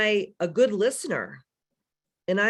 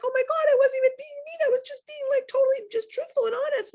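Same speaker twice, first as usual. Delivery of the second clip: put-on high valley girl. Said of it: "and you're like".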